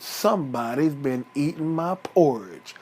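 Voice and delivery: low, soft grumble of displeasure; lightly voiced Papa Bear, displeased and low; unhappy Papa Bear. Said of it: "Daddy wasn't happy".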